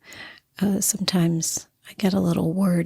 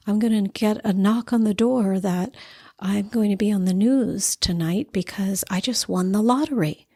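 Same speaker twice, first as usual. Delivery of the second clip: building excitement. Retold or imitated. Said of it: "And then you start laughing".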